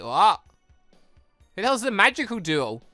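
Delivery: normal talking voice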